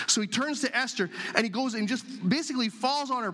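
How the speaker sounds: usual speaking voice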